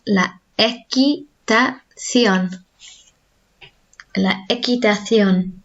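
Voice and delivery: équitation said very slowly with a th before ion; slow Spanish la équitation. Shown as a demonstration. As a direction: spell out équitation syllable by syllable. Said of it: "Let's try that again".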